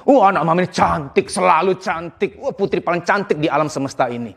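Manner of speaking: lightly acted doting praise, drawing words out; gushing parent. Parent overpraising a daughter's looks, gushing. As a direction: gush over the child, stretching the praise. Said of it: "jangan selalu bilang".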